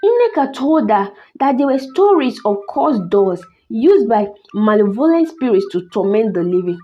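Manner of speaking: measured, dramatic storytelling; story narration. A narrator's reading. Narrator telling listeners of a cursed doll, story narration. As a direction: tell an eerie tale with careful pauses.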